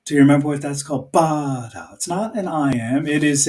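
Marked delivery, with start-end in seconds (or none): 1.1-1.9 BA-da, strong first beat, falling; trochee beat. Shown as a demonstration. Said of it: "it goes double".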